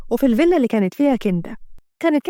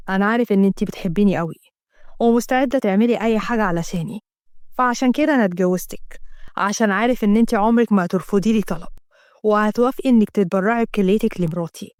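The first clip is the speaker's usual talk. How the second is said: a lower, calmer man's voice; a hint of a lower male voice; lightly voiced husband; 4 semitones lower than usual. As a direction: play the husband asking plainly. Asem voiced by narrator.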